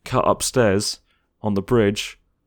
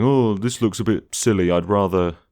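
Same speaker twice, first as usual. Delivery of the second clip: mock complaining fan. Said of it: "People saying".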